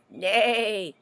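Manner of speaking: neighing nay; horse neigh. Acted. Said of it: "The horse said".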